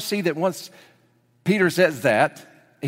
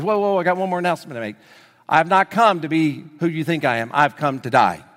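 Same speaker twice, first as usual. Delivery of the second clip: sudden announcement; 3 dB louder than usual. Acted. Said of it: "all of a sudden he goes".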